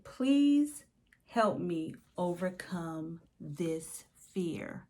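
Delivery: urgent plea that settles into a slow ask; pleading. Retold or imitated. Praying aloud, repeated plea.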